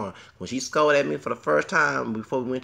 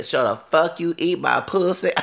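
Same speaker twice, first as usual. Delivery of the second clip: loud, raised retold yell; half-shouted imitation; mock shout; 5 semitones higher, 5 dB louder than usual. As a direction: belt out the coworker's crude order. Retelling coworker's crude command.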